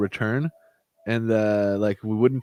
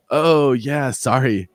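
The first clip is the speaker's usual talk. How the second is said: bright, higher fake-sorry tone; mock apologetic; 4 semitones higher, 4 dB louder, much slower than usual. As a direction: play it falsely apologetic, louder. Mock polite refusal to customer.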